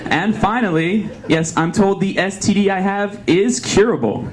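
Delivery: lightly voiced news anchor; newscaster voice.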